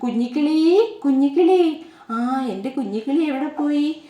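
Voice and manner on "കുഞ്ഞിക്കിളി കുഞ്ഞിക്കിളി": mother bird calling. Acted. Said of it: "അമ്മക്കിളി വിളിക്കുവാ".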